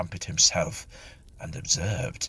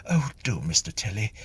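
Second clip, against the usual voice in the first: relieved; 3 semitones higher than usual. Acted. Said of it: "She gave a sob of relief".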